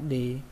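"đi" said with a Vietnamese huyền tone; low falling tone on "đi". Shown as a demonstration. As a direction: let "đi" fall like a grave-accented syllable. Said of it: "chúng ta thêm dấu huyền nữa".

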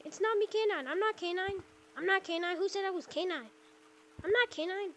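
lifted, mock-innocent denial; K nine. Shown as a demonstration. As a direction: impersonate a troll denying who he is. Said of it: "Just like that".

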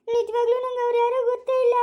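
high, tearful protest. Acted. Insisting to Karunya they are strangers, tearfully. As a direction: plead innocence through tears. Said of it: "ನೀವ್ ಯಾಕೆ ಅಳ್ತಾ ಇದ್ದೀರಾ".

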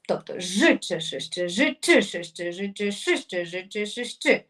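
Ж, Ч, Ш, Щ with the stress shifting to the next letter each round; Ж Ч Ш Щ with rotating stress; moving stress. Shown as a demonstration. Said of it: "ставимо наголос на наступну букву".

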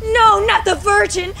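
loud, panicked protest; horrified. Acted. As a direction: recoil in horror. Ghost horrified by transfer.

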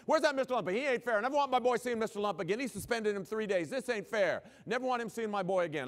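yelling high and loud, mock-furious; big intimidating father raving in the school office, very loud; ranting parent. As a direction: storm in hollering for Mister Lumpa. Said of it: "He's out there yelling, ranting, and raving".

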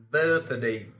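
"birthday" with BIRTH punched, day lighter; first-syllable stress. Shown as a demonstration. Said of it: "the first syllable of such words".

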